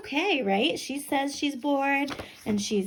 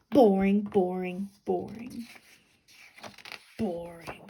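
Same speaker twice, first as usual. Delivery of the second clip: fading bored potato; 3 semitones lower, slower than usual. Acted.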